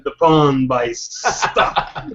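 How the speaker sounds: slow, breaking into a laugh; amused, laughing. Real, not acted. Game master tells player of being rained upon, laughing. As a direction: drag it out and crack up.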